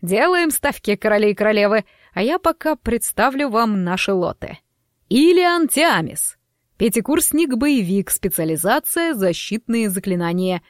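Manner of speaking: theatrical auctioneer announcing lots; showman host. Acted. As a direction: sell the students like a showman.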